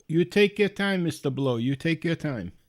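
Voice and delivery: obliging mock Indian accent; put-on Indian-accented indulgence. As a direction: imitate a patient caller with an Indian accent. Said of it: "he's got a very thick Indian accent".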